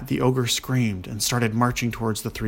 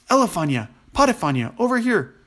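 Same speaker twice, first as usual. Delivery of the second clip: loud, raised call across a distance; yelling to someone; 8 semitones higher, 5 dB louder than usual. A narrator's reading. Dwarf calling his twin brothers over, yelling. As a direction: holler to brothers a ways away. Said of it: "he yelled".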